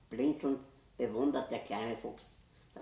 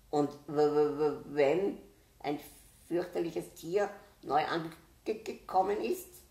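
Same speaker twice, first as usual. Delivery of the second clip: stammering hare, slow and higher, trembling with fear; frightened stutter; 5 semitones higher, 6 dB louder, slower than usual. A narrator's reading. Scared hare stammers to the forest animals, fearful stutter. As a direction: stumble over the first words like a scared little hare. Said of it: "stottert der Hase".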